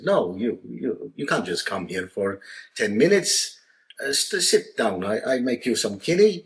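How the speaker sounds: put-on light Maltese dad accent, insistent; a hint of an old Maltese father hosting. Maltese dad lightly voiced insisting his guest stay. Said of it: "Mario, said".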